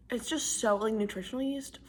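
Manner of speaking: chewing, whispered words; munching popcorn. Real, not acted. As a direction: mouth full, whispering. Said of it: "Also, I'm eating popcorn right now".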